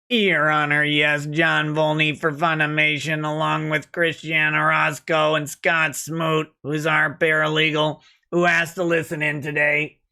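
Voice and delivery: put-on muffled as if over an old courtroom speakerphone; mock speakerphone caller. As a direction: sound like a tinny phone line. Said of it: "played by the voice of someone with, uh, one of those, one of those boxes".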